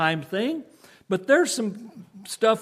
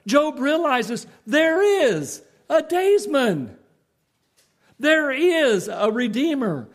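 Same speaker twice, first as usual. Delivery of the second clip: higher, slow and emphatic build; preaching climax; 4 semitones higher, slower than usual. Real, not acted. Preacher building toward the climax for his church, fervent. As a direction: hammer each "There is" harder.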